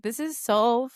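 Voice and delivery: drawn-out, mock-hysterical delivery; hysterical laughing. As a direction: drag each word through near-crying laughter. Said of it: "I started laughing hysterically".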